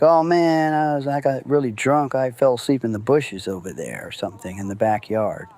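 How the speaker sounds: put-on faking drunk excuse. To the partygoers, a lightly hammed-up drunk excuse. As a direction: play it off as a drunk who slept outside. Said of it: "they knew".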